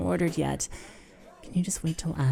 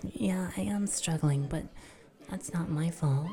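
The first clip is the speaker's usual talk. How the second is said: whispering; 5 dB quieter than usual. Real, not acted. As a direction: whisper the admission. Whispering, struggling.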